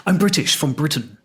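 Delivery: lightly exaggerated posh Britishness; posher British accent. Prisoner trying to win the embassy's help, posher British. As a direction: play up your own British accent a little. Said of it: "I'm making myself posher and emphasizing my own Britishness".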